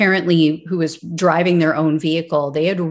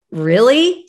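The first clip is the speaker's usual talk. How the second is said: incredulous; 4 semitones higher, 3 dB louder than usual. Real, not acted. Host reacts to dispatcher quote.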